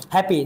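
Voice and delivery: হ্যাপি in one unbroken push; হ্যাপি run together, no syllable break. Shown as a demonstration. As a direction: say হ্যাপি straight out without a stop. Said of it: "একবারে বের আসছে".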